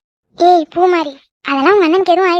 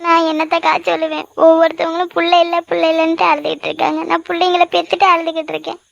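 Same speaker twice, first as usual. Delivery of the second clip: mildly weepy complaint; tearful lament. Acted. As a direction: lament through acted tears. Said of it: "எதுக்கு இப்ப இப்படி அழுதுட்டு இருக்க".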